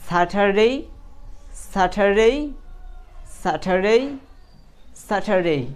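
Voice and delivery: "Saturday" with a clear long ay at the end; drilled "ey" ending. Shown as a demonstration. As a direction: model "Saturday" word by word, pausing between repeats. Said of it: "তারপর আপনি বলবেন".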